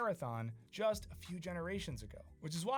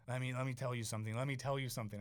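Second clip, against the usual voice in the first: put-on Boston accent; 5 semitones lower, faster than usual. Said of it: "He had this, like, Boston accent".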